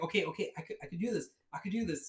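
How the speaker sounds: low, soft steadying murmur; calm yourself down under your breath; quiet self-reassurance; self-pep talk. Retold or imitated. Psyching himself up quietly.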